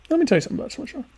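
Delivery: high-pitched mock pronouncement; mock lecture, high. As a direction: squeak the line up high like a pompous orator. Repeats the line, pitched way up.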